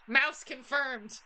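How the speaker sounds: mock mouse voice. Player announces the caller is a mouse, mock mouse voice. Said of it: "sounds like a voice I would do".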